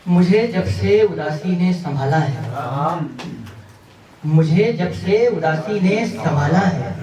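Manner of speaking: measured mushaira recitation; poetry recital. Acted. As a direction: recite each line of verse to an audience. Recites ghazal couplets to audience.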